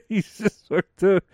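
high put-on squeak trailing off; mocking voice. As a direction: lightly keep the mock Jamie Foxx voice. Keeps the mocking voice going.

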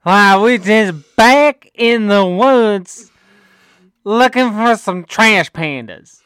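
hillbilly twang. Shown as a demonstration. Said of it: "I got a real twang to my voice".

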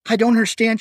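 high, breathless frightened plea; panting in fear. A narrator's reading. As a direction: pant it out in terror. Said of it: "she panted".

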